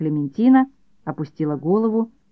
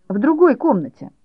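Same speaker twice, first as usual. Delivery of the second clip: high, louder stress on другой; boy sending his mother off to knit elsewhere, high and bossy; bossy permission; 7 semitones higher, 4 dB louder than usual. A narrator's reading. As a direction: grant it grandly, hitting другой.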